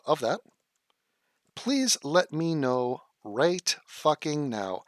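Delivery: slow, deliberate with long pauses; sarcastic legalese read with heavy pauses; mock official statement. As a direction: deliver it like a stiff press release.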